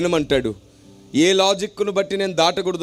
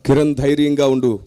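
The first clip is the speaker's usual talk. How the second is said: low, louder, solemn inner voice; voice of the Holy Spirit; 6 semitones lower, 4 dB louder than usual. Retold or imitated. Holy Spirit comforting Kiran before he answers, low solemn voice. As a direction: speak as God reassuring him from within. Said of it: "పరిశుద్ధాత్మ దేవుని స్వరం".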